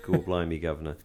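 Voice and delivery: lightly put-on Cockney accent; mock Cockney. Podcaster joking about an actress's accent switch, mock Cockney. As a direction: toss in a token Cockney catchphrase. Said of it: "switched her over to Cockney".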